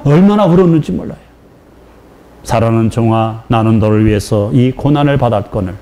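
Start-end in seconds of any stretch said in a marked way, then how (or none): 2.4-5.7 voice of the Lord. Retold or imitated. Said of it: "그 한마디".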